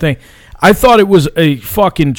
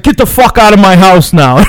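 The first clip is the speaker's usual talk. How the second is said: higher, raised-voice retold outburst; mock angry order; 5 semitones higher, 4 dB louder than usual. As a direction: imitate dad throwing someone out. Dad throwing them out, retold.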